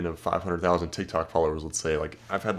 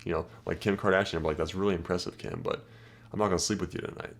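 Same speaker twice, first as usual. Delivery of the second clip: softer, unimpressed mock praise; dry brush-off; 2 semitones lower, 5 dB quieter than usual. Shown as a demonstration. Guy addressing Kim Kardashian, dry and unimpressed. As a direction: calmly shrug off a celebrity. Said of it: "I'll pull that line out".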